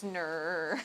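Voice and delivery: drawn-out Aussie "no". Acted. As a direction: try the stretched Australian "no". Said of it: "It goes".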